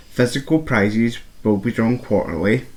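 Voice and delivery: flat robotic monotone. Real, not acted. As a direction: read it like a robot. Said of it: "Speaking like a robot there".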